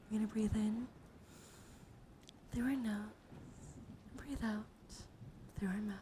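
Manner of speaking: hushed, unhurried relaxation voice; guided breathing meditation. Acted. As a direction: guide them gently through each breath. Leads a breathing exercise.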